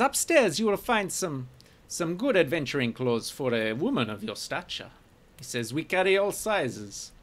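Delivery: oily shopkeeper. Acted. Shopkeeper steering the woman customer upstairs, in an oily, fawning voice.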